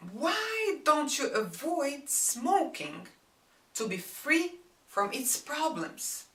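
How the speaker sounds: harsh reproach. Shown as a demonstration. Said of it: "I am reproaching your smoking in a harsh manner".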